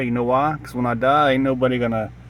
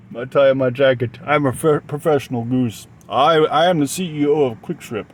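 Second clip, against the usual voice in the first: mock-pompous CEO voice, a touch louder; professional goose voice; 3 dB louder than usual. Vlogger playing a goose CEO, mock-pompous. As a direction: announce yourself grandly as the goose boss. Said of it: "in that voice".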